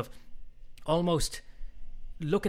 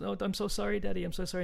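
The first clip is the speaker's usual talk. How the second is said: little balloon; 7 semitones higher than usual. Acted. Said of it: "And the little balloon goes".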